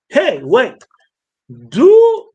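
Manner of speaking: lightly voiced cheeky Hermes.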